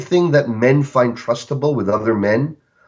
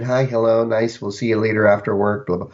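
tepid greeting. Retold or imitated. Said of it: "this tepid".

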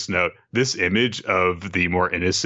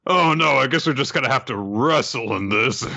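mock dub hero; 5 semitones higher than usual.

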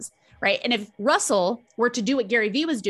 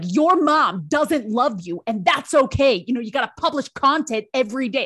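significance; 2 semitones higher, 3 dB louder than usual. Retold or imitated. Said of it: "he's all about the importance and significance".

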